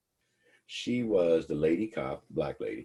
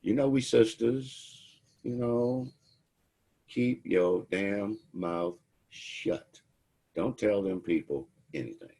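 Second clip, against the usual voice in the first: higher, slow conspiratorial plea; sly sisterly cop; 5 semitones higher, slower than usual. Retold or imitated. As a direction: drag it out like a fake big sister. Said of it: "she played that black card".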